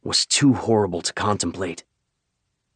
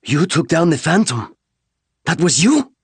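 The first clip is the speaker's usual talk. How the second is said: stunned disbelief; 9 semitones higher, 4 dB louder than usual. Acted. Stunned soldier realising who they are.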